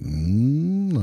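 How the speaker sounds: high, drawn-out "mmm"; rising-and-falling flight noise; imitated flying hum. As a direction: hum like a plane swooping along. Imitates himself flying the plane.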